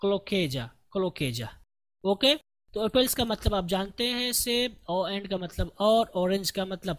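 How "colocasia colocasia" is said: "colocasia" repeated as ko-lo-KAY-ja, falling; pronunciation demo. Shown as a demonstration. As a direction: model "colocasia" twice, lower the second time. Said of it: "इसको आप क्या पढ़ेंगे".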